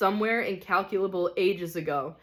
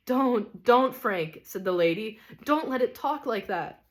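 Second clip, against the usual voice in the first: higher, pressing don't; pleading lady; 4 semitones higher than usual. Acted. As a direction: beg him to stop.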